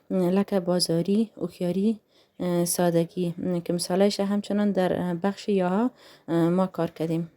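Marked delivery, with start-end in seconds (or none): 0.6-3.3 "بازاری، هوښیاری، سادگی" each ending in a clear ee; clear ya sound. Shown as a demonstration. Teacher giving examples of the ya vowel, pronunciation demo. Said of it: "شکل تلفظ آن ای".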